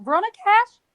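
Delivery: calling out loud and high. Acted. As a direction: call them to follow your voice. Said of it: "I'm gonna be like".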